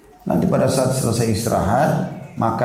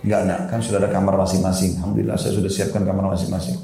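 gentle coaxing; 2 semitones lower than usual. Retold or imitated. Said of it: "Saya rayu baik-baik".

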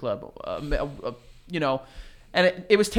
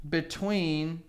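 laughing; 9 dB louder, slower than usual. Real, not acted. Reading the search result aloud.

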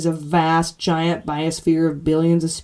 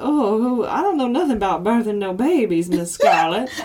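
Southern belle voice; 3 semitones higher than usual. Retold or imitated. Quoting Gone with the Wind.

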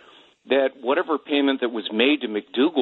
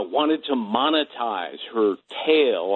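"tale" leaned on and set apart; stress on tale. Real, not acted. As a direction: put pointed emphasis on the word "tale". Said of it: "I emphasize the word tale".

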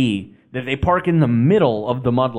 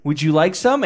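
lightly imitated pleased woman, a little higher; pleased hostess; 4 semitones higher than usual. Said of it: "she was so pleased".

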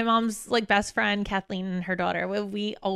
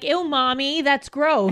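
put-on higher, louder grossed-out kid; mock disgusted child; 5 semitones higher, 4 dB louder, slower than usual. Teasing a friend as her future kid, mock disgust. Imagined child scolding his mother.

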